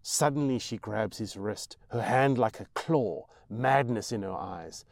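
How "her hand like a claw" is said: ordinary delivery, nothing marked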